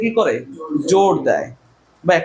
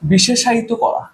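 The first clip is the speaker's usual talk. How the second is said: slow dictation; 3 semitones higher, slower than usual. Shown as a demonstration. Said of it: "লিখবা না".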